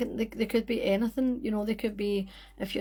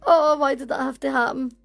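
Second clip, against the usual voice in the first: exasperated; 4 semitones higher, 7 dB louder than usual. Real, not acted. Live stream just went wrong.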